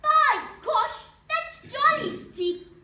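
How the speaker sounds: outraged at the price; exclaiming. Retold or imitated. Mother exclaims at the dentist's fee, surprised. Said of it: "She cried".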